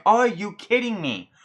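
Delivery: fed up with the crowd, raise the pitch; what the hell, are you serious; exasperated disbelief. Retold or imitated. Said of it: "I'm like".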